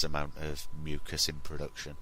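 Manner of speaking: hoarse, husky from a cold; croaky with man flu. Real, not acted. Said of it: "with how husky it is".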